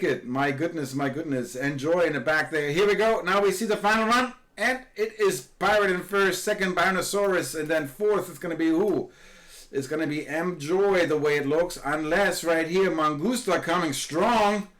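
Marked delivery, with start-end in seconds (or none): 2.7-14.7 calling the final run with rising excitement; excited race call. Real, not acted. Live race final commentary.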